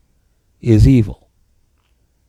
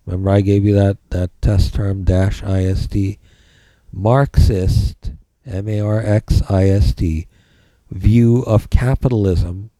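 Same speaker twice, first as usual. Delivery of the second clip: dictating. Shown as a demonstration. Dictating notes to the class.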